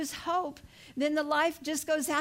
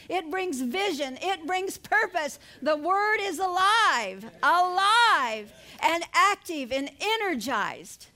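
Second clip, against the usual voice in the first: preaching; 2 semitones higher than usual. Real, not acted. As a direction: preach it in measured, mounting phrases. Preaching builds in a rhythmic list.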